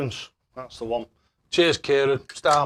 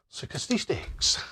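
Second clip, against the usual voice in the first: bingo caller; 5 semitones higher, 5 dB quieter, much slower than usual. Retold or imitated. Bingo call drawn out.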